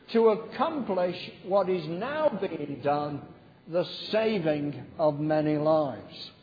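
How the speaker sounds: slow, unison-style recitation; paced group reading voice; congregation recitation. Shown as a demonstration. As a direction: lead the room through the verse. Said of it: "Shall we say that together?".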